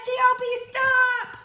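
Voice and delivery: loud, high spelled-out STOP; bright shouted stop sign. Acted. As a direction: call it out big for the kids. Reading sign aloud, exclaiming.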